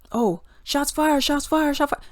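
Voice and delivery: slow, drawn-out mock cop cry of shots fired. Mocking the officer who shot first, slow mock cop cry. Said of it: "he was like".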